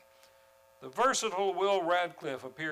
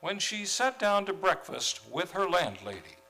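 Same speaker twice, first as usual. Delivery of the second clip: story narration, a touch louder at first; radio narration; 4 dB louder than usual. A narrator's reading. Narrator introducing Miss Brooks to listeners, storytelling voice. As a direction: set the scene like an old radio narrator.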